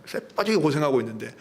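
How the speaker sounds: Jeolla-flavoured complaint about toil; Jeolla dialect. Acted. Elder son complains of hard toil, in Jeolla dialect. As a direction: grumble it as a Jeolla local would. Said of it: "전라도 말로".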